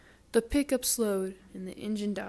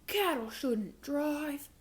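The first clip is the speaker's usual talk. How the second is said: stern; 5 semitones higher, slower than usual. Acted. Mayor shakes fist.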